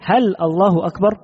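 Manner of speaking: "هل الله أكبر؟" asked with a rising end; as a question. Shown as a demonstration. Teacher showing how the error sounds like a question, rising. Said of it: "كأنه يستفهم".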